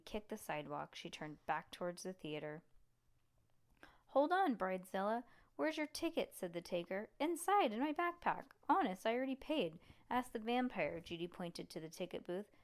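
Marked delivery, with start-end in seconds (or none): 4.1-6.3 gruff ticket taker. Acted. Ticket taker stopping Judy. 7.2-11.0 pleading. Acted. Judy pleading with ticket taker.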